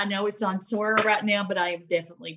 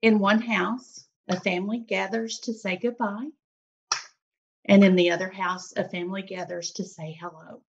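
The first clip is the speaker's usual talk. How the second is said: teary. Real, not acted. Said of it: "I'm getting kind of teary".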